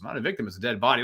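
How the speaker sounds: quick, deadpan correction; dry retort. Retold or imitated. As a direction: fire it back fast and dry.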